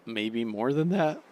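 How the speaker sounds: slow words through a yawn. Real, not acted. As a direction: let a yawn pull the words. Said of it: "I gotta stop yawning".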